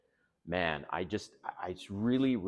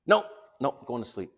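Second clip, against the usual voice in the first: higher, louder flat nope nope; imitating her refusal; 6 semitones higher, 8 dB louder than usual. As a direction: mimic her brushing him off.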